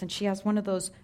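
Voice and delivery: high, loud laughing telling; giggling through the story; laughing while describing the dog. Real, not acted. Dog in baby carrier, laughing.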